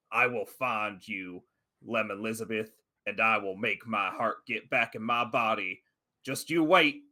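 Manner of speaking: a hint of a spiteful spirit promising to return; vengeful poltergeist. GM voices poltergeist.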